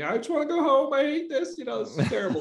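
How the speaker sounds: high, whiny mock sob, half laughing; imitating his wife's tearful complaint with a grin; mock crying wife. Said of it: "crying to me".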